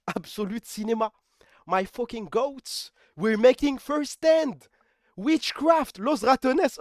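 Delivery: very slow, stretched hype in English; drawn-out hype. Real, not acted. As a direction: savour every word of praise. Hyping his team, drawn out.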